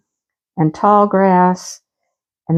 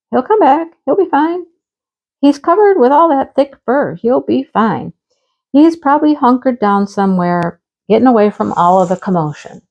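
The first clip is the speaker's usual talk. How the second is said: reassuring husband; 4 semitones higher than usual. Retold or imitated. Voicing husband reassuring her.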